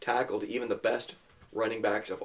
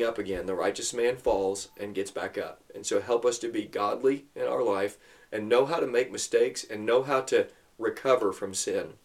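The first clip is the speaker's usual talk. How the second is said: prayer. Acted. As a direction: pray sincerely to God for the boys. Dad leads prayer with boys.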